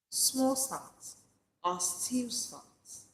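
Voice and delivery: small lifted, rest drawn out slowly; slow repeated mantra. Shown as a demonstration. Preacher giving listeners a line to repeat, slow. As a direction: savour each word of the motto. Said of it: "Say it to yourself".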